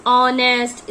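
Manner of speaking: ऑनेस्ट begun on a clear O sound; silent h in honest. Shown as a demonstration. Teacher giving students an example word, ऑनेस्ट with no h sound. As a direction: open ऑनेस्ट on the vowel, leaving out h. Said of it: "इसमें ओ की sound आ रही है ना".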